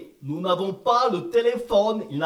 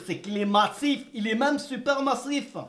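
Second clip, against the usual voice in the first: worked up; 4 semitones higher than usual. Acted. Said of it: "Papa, tu t'énerves".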